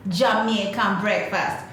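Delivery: slow, loud, savoring list; waiter listing menu. Retold or imitated. Waiter listing breakfast to the guest, slow and loud. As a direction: roll out the menu slowly. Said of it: "And he goes".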